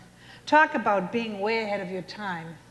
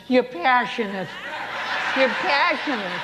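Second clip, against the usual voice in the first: put-on louder, insistent old man; emphatic old man; 4 semitones higher, 3 dB louder than usual. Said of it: "That's what I've been trying to tell you".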